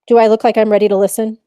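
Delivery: exaggerated not-ready take; slumped mock version. Shown as a demonstration. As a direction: ask it like a kid pretending to listen. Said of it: "So what if I do this?".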